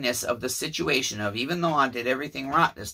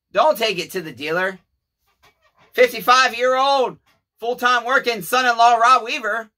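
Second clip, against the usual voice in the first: higher and louder pleading; a raised, apologetic plea; loud earnest plea; 6 semitones higher, 5 dB louder than usual. Retold or imitated. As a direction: beg her loudly to trust him. Voicing Rob's loud plea.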